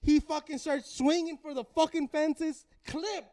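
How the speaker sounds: high, stretched-out play-by-play; excited fight call. Retold or imitated. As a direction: narrate the knockdown at fever pitch. Excited re-enactment of the knockdown.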